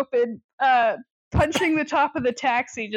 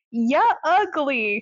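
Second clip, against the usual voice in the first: slow, drawn-out jeer; mock screamed insult; slower than usual. She screams at Amos, drawn-out mock insult. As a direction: imitate her drawing out the insult. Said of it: "and also screams at".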